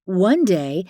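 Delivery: usual speaking voice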